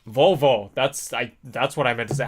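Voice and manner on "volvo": loud blurt. Real, not acted. Blurting the correct word.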